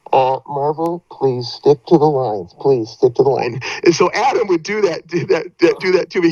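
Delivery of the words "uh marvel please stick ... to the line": lightly voiced director over a megaphone, slow; mock megaphone voice. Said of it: "over the megaphone we'd always hear".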